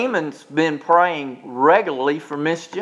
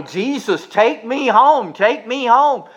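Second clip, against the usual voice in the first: higher and slow, drawn-out plea to Jesus; pleading prayer; 4 semitones higher, slower than usual. Retold or imitated. Pastor voicing a sick man's prayer to Jesus, higher slow plea. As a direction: stretch the plea out, higher, like a dying man asking. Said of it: "You know".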